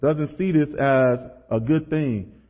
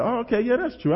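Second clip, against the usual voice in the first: high, softer voice giving in; naive agreement; 7 semitones higher, 3 dB quieter, faster than usual. Retold or imitated. Speaker replays younger self talked into skipping, naively agreeing. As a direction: give in gullibly, pitched well up.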